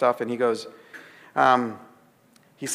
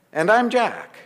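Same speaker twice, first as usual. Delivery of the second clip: punchline then a burst of laughter; delivering the mix-up, cracking up; laughing; 10 semitones higher, slower than usual. Retold or imitated. Mishearing of The Shack.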